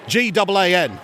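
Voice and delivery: lightly put-on Australian accent; Australian caller. Mel spells the contest word, light Australian accent. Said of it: "he does two different dialects of Australian".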